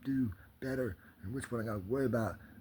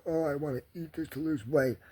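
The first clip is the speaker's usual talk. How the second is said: mocking dieter; 8 semitones higher than usual. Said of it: "Not just a".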